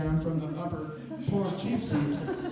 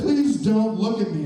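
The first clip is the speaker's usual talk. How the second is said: louder, pressed warning; firm warning; 4 semitones higher, 8 dB louder than usual. Retold or imitated. Stranger orders the fan to stop looking, louder and firm. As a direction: insist firmly, pushing the words out. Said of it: "He said".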